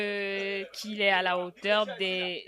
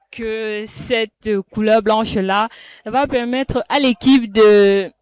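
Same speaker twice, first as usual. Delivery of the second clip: rising excitement; 9 dB louder than usual. Real, not acted. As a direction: voice swelling louder with hope. Commentator builds to hope.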